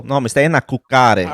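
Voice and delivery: playfully mock her phrasing; mocking the aunt's question back at her; mocking reply. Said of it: "I felt like I needed to mock her".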